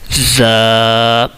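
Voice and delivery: زا with the a held a little longer; slightly stretched. Shown as a demonstration. Teacher tells students to stretch زا a little. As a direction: draw زا out a bit, buzz the z. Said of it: "اس کو تھوڑا سا کھینچ کے پڑھنا ہے".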